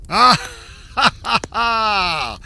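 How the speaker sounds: loud slow mocking king's laugh; roaring laugh. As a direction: roar with cruel laughter. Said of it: "roared the latter".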